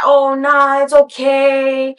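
mock his soothing brush-off; imitating coaxing man.

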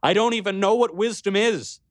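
high, cracking cry to the king; pleading, voice about to break. Acted. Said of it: "my voice breaking".

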